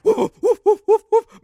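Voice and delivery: loud barking woofs; dog barking. Acted. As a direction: bark like a big dog. Dog fighting the cat.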